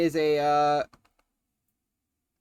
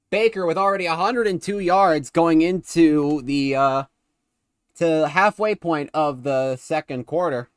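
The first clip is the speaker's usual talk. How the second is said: lively football commentary; live play-by-play; 3 semitones higher, 5 dB louder than usual. Real, not acted. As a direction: call the play as it happens. Calls the game live.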